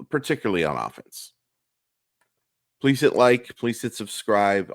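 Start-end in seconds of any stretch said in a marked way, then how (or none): 2.8-4.7 hoarse, raspy morning voice. Real, not acted. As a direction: voice worn rough and raspy. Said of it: "my voice sounds a little raspy".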